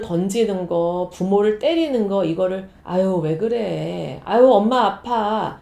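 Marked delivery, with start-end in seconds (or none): 2.8-5.6 slow, drawn-out soft mother voice; mild mock indulgent mom; soft pleading mother. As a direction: plead slowly like a mom letting it slide. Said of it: "이러면서 그냥 넘어간다".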